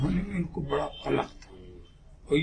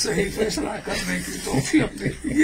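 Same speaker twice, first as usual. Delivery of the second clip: laughing through the quoted prayer; 4 semitones higher than usual. Retold or imitated. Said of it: "क्या दुआ करते हैं?".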